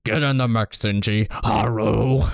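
a light Nixon voice, close to his own; a mild hint of Nixon giving the order; Nixon impression. Gendo as Nixon ordering Shinji, lightly voiced. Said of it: "Gendo as Richard Nixon".

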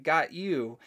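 spring the counter-prank with glee; mock gotcha.

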